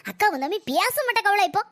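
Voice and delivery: tearful, choked complaint; crying. Acted. Mother-in-law complains to her daughter-in-law while crying. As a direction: speak through acted tears.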